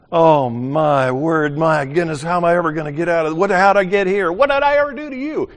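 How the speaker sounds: high, exasperated mock complaining; whiny complainer. Preacher mimics a complaining believer, hammed-up whine.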